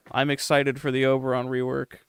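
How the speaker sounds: flat deadpan delivery; deadpan monotone voice. Retold or imitated. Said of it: "in a straight monotone voice".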